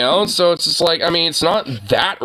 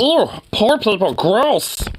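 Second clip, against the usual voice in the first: higher, slow snooty ugh; mock disgust; 7 semitones higher, slower than usual. Cohost joining the parody of the YouTuber, mock snooty disgust. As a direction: play the disgusted rich brat.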